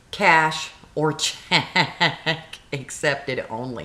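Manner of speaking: slow, stretched through a laugh; laughing read. Real, not acted. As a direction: read the sign in disbelief. Reading the sign while laughing.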